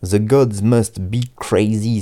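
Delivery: American accent. Real, not acted. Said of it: "mon accent américain".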